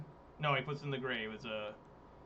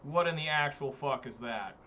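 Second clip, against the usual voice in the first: baffled outrage. Real, not acted. Opponent's shocking play.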